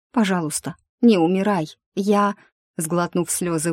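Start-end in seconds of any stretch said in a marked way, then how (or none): none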